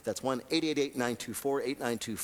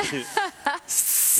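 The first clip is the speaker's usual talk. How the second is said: snake hiss; 12 semitones higher than usual. Acted. Imitates snakes practicing their arias.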